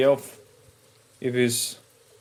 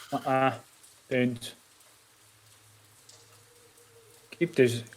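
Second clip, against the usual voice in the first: hushed, softer warning aside; whispered warning; 5 dB quieter than usual. Acted. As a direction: keep it down, for his ears only. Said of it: "I'm whispering to him".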